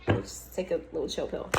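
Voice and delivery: low, soft, self-calming aside. Real, not acted. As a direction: settle the voice right down. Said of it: "calm down a little bit".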